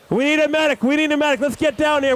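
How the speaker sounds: high urgent call for help; man down shout. Real, not acted. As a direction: shout for a medic. Calling for a medic.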